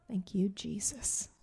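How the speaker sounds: breathy whispered thank you. Real, not acted. A woman whispering thanks to Jesus for her healed back. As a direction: whisper it in relief.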